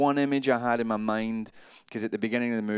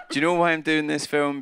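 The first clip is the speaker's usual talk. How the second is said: mock star boast; 7 semitones higher, 6 dB louder than usual. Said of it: "he went".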